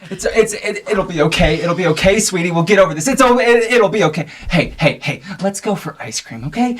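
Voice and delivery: a touch of high motherly fussing; anxious reassuring mom. Acted. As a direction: hurry to comfort your child. Mother anxiously reassuring her daughter.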